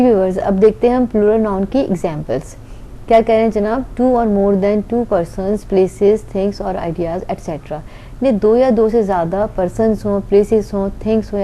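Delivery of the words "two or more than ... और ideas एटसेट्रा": very slow, each word set apart; slow dictation. Shown as a demonstration. Teacher dictating the plural noun definition, very slow. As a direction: read it out slowly so students can write.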